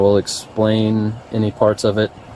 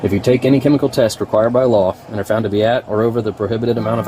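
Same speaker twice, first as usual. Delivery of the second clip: formal reading. Real, not acted. Reading the arrest notice.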